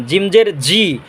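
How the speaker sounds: "জিম জের জি" with a hard j from mid-tongue; slow "jim jer ji", firm j sounds; correct JIM. Shown as a demonstration. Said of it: "সঠিক উচ্চারণটা হচ্ছে জিম".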